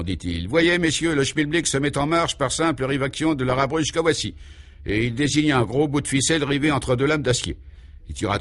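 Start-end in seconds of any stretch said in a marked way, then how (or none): 0.5-4.3 higher showman's demonstration voice; pompous scientist presenting; proud inventor. Acted. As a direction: show off the machine to the gentlemen. Inventor character demonstrates machine.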